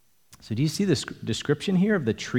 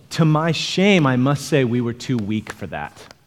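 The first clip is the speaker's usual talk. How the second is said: mock confession, opening punched louder; sarcastic; 4 dB louder than usual. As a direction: read it as a lightly sarcastic admission. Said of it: "Do you hear the sarcasm?".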